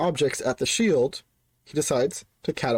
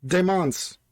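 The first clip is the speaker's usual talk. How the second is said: mild, higher-pitched call upward; Zorman yelling up; 5 semitones higher than usual. Acted. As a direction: call up from a pit, half-yelled. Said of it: "Zorman yells up".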